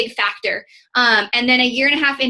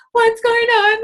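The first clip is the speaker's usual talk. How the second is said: much higher, louder panicked echo; panicked freak-out; 12 semitones higher, 5 dB louder, slower than usual. Retold or imitated. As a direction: throw the question back in a frantic panic. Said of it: "like, just freaking out".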